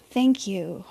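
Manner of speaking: low, relieved thanks. Pretend. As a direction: say it as if letting go after a sigh. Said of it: "You breathe a sigh of relief and say".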